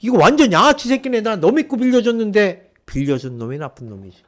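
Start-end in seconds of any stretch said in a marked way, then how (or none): 0.0-2.7 angry cursing. Retold or imitated. Owner cursing about missing debtor.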